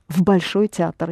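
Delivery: "в" almost swallowed into "Большой"; touch the "в" very lightly before "Большой"; barely audible V. Shown as a demonstration. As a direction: run a faint V straight into "Большой". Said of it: "You can hardly hear this V".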